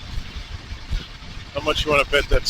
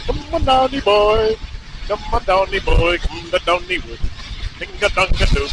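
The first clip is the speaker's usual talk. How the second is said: put-on shaky-grasp Irish accent, amateur and singsong; attempted Irish accent; 2 semitones higher than usual. Rider practising though Irish is hard, attempted Irish accent. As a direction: have a playful go at an Irish lilt. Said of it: "Irish is hard to do".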